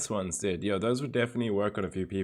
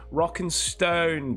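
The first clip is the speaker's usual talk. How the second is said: slow, drawn-out higher war cry; game battle cry; 6 semitones higher, much slower than usual. Pretend. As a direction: call it out proudly, stretched.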